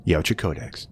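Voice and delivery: deep, slow, grave movie-trailer narration; mock trailer voice. Mock-epic narrator reading the Yautja Codex. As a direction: intone it like an epic codex opening.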